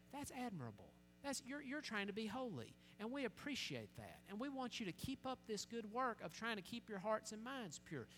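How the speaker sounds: soft, encouraging praise; gentle approval. Acted. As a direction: affirm them quietly and kindly. Voices approval of family's holy choice.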